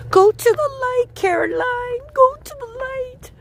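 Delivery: Poltergeist mother. Retold or imitated. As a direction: call out like a ghostly mother in a horror film. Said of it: "her mummy was saying".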